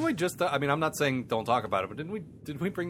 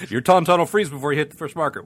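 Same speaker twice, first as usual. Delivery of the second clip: movie quote voice; 4 semitones higher, 10 dB louder than usual. Retold or imitated. Quoting Empire Strikes Back line.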